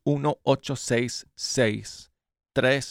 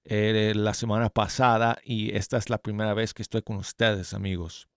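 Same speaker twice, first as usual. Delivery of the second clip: talking through new braces; words slurred by braces. Real, not acted. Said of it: "me pusieron los brackets en los dientes". (hablando con brackets en la boca)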